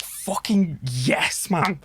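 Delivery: slow drawn-out fucking yes; slow delighted yes; stretched-out yes. Retold or imitated.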